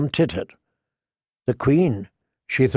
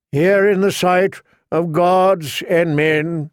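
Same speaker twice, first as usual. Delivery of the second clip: solemn septon; 4 semitones higher, slower than usual. A narrator's reading. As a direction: proclaim it slowly to the crowd. Septon proclaims the marriage.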